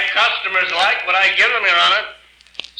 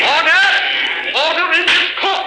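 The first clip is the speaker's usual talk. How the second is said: shouting order; 8 semitones higher than usual. Acted. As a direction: cut through the uproar. Shouting down the courtroom.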